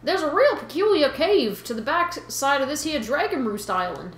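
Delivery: put-on Boston fish guy, accent starting to slip; slipping Boston accent. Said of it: "I'm totally losing the accent".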